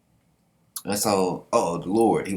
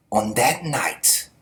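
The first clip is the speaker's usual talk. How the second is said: dramatic quote; slower than usual. Retold or imitated. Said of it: "he goes".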